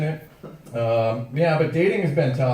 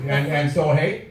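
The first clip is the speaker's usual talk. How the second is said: Wisconsin "hey" demo; slower than usual. Shown as a demonstration. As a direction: show the crowd the Manitowoc sentence ending, lifting "hey". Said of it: "That's how you end every sentence in Manitowoc".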